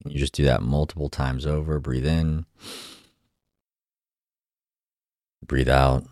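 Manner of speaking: calm guided meditation voice. Acted. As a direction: gently guide the breathing. Leads a breathing exercise.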